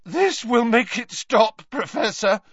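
high, cracking, shaken voice. Acted. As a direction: let the voice crack with fear. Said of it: "his voice cracking".

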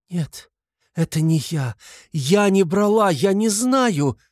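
high, desperate denial; heart-rending cry. A narrator's reading. Sonya denying theft to everyone, heart-rending cry. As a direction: build from a small no to a drawn-out wail. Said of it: "закричала она разрывающим сердце воплем".

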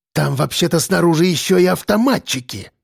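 agitated, scornful warning; hissed warning. Acted. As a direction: hiss it at the others in irritation. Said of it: "вдруг зашипел мажор".

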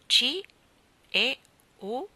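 impatiently spelling out letters; impatient prompting. A narrator's reading. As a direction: prompt him, losing patience. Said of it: "facendosi impaziente".

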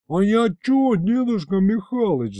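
громкий высокий вопль; завопи, оправдываясь; вопль оправдания. A narrator's reading. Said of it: "завопил бес". (бес вопит, оправдываясь перед дедом, громко и высоко)

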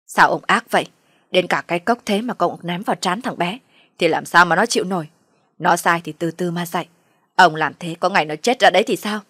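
mother's indignant protest; reproachful. Acted. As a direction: take him to task for his cruelty. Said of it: "còn không quên trách".

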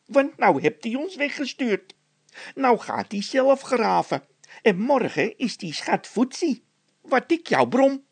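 high, loud, furious scolding of a colleague; a worker blasting his partner for blabbing; angry scolding. Acted. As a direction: tear into him, pitch up and loud. Angry quarrel between two workers.

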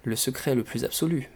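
expressive, lively read-aloud with animated dialogue; story narration. A narrator's reading. Reader sharing a comic Russian novel, expressive storytelling. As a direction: read the novel out with theatrical phrasing.

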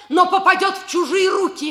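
мать повышает голос, пугая дочь; громче и быстрее, с нажимом; напористо. Acted. (мать пугает дочь: громко и быстро)

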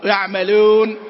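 يعملون with a mixed, unrounded u. Shown as a demonstration. Teacher repeating the wrong يعملون. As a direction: say يعملون with the vowel tinted by kasra. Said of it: "هذا الصوت غير موجود في العربية".

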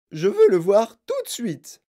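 high, loud order; insistent demand. A narrator's reading. Mother wants her son now, insistent. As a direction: demand it urgently.

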